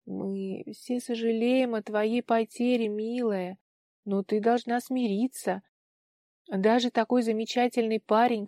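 ordinary delivery

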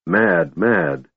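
a touch of gloom, low repetition; gloomily. Acted. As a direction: mutter it twice, downcast. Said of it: "repeated Lord Amathus gloomily".

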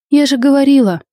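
offended. A narrator's reading. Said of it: "обиженно сказала я".

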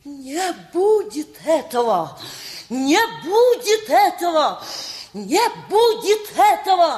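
mother refusing the match, slow and swelling anger; building fury. Acted.

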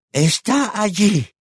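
high, slow, drawn-out voice; eerie old woman. A narrator's reading. Old woman pointing to a corner, high eerie murmur. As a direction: draw it out high and strange. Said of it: "susurró ella".

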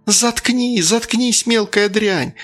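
put-on high, hysterical screeching at the girl; furious mother shrieking at her daughter. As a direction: lose control completely. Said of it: "голос был истеричный, визгливый".

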